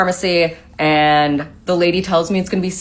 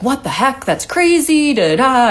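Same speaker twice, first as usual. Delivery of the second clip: freaking out mom; 7 semitones higher than usual. Retold or imitated.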